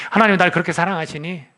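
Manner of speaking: ordinary delivery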